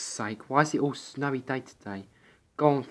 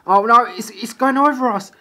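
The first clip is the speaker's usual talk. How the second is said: panicked high shout; 11 semitones higher, 10 dB louder than usual. Acted. Snowball rolling over them.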